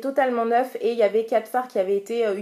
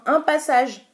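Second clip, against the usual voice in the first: higher, louder excited cry; excited shout; 5 semitones higher, 3 dB louder, slower than usual. Real, not acted. Beauty vlogger to viewers after one swipe, shouting with excitement. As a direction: shout it out in delight. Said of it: "Je sais pas pourquoi je crie, je hurle".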